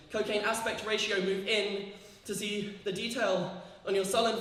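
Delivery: steady, measured performance poetry; poem reading. Acted. Poet reading her poem to the audience. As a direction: read it like a spoken-word poem.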